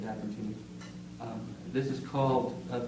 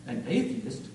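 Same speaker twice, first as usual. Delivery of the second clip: taken-aback echo, pitch jumping mid-word; understated, disbelieving query; shocked question. Acted. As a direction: repeat it in mild shock. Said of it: "she said in shock".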